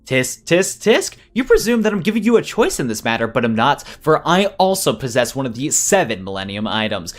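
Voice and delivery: lightly voiced condescending villain; scold, then boast of your power; gloating villain.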